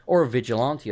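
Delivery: "vigilante" with an AH in the third syllable; English pronunciation. Real, not acted. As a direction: say "vigilante" as vij-i-LAHN-tee. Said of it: "I said it the frickin' English way".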